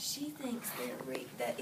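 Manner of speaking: soft whispered aside; quiet whispered restating. Real, not acted. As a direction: breathe it quietly to yourself. Teacher whispers restating child's idea.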